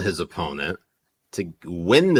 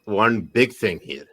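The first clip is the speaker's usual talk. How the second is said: put-on slow, louder Pakistani accent; 4 dB louder than usual. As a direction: reveal the conspiracy in a Pakistani accent. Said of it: "Do conspiracy theories in Pakistani accent".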